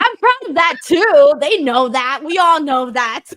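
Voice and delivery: defensive insistence. Real, not acted. Defensive reply to teasing.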